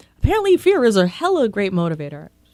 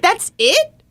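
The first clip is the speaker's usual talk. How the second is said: incredulous; 10 semitones higher than usual. Retold or imitated. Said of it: "just being like".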